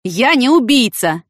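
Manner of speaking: high, slow, insistent denial; protesting. A narrator's reading. Ivan Kapustin objecting to the lieutenant's accusation, protesting. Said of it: "попытался возразить Иван Капустин".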